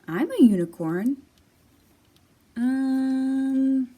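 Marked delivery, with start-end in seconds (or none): 0.1-1.2 louder, blunt rhino claim. Acted. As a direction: boom it like a proud rhino. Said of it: "The rhino says".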